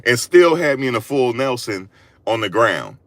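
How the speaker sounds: usual speaking voice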